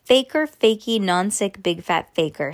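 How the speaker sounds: loud bratty teasing chant; taunting. Acted. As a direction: jeer like a little brother. Brother taunting sister.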